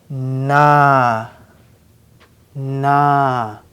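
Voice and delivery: "na" held long on an open ah; syllable reading. Shown as a demonstration. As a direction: read "na" as a slow, separate syllable. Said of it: "let's read these syllables".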